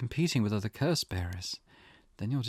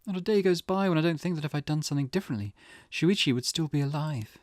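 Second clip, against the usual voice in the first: softened, anguished wondering; mother tormented by what-ifs; grieving self-blame; 3 dB quieter than usual. Acted. Mother wonders if she could have saved Shuichi, grieving.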